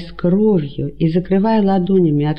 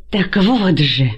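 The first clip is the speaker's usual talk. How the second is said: furious yell; 3 semitones higher, slower than usual. A narrator's reading. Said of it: "яростно закричал Антигон".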